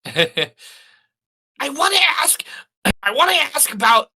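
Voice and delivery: strained, very high cartoon voice, drawn out; Sheen. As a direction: struggle to reach a high cartoon character's pitch. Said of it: "I don't know if I could do it".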